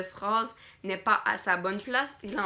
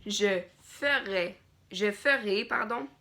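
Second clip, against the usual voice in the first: dictating. Shown as a demonstration. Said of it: "dire les points, dire les virgules". (dictée lente, ponctuation dite à voix haute)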